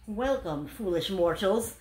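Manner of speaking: slow spooky greeting; mock haunted-house host; dark lord.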